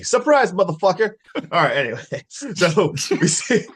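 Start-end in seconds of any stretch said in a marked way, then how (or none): 0.0-1.1 higher, louder gloating shout; spring the surprise with a taunting yell; mock villain reveal. Host acting the movie reveal to his co-hosts, a loud gloating taunt.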